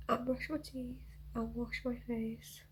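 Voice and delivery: soft whispered wrap-up; whispering. Real, not acted. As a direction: hush it, tired but pleased. Quiet proud wrap-up.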